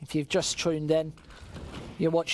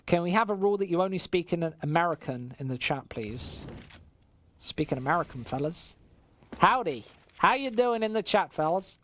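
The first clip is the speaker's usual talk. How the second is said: put-on American accent, folksy and playful; 2 semitones higher than usual. British caster greeting chat fellas, mock American accent. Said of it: "That's my American accent".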